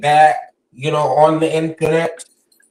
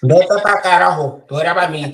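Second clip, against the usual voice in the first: Spanish cussing; faster than usual. Shown as a demonstration. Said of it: "you haven't heard Puerto Rican curse".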